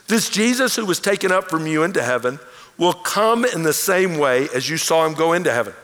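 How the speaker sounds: solemn public reading of scripture. Acted. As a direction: read the passage out to the congregation. Reads the ascension passage aloud.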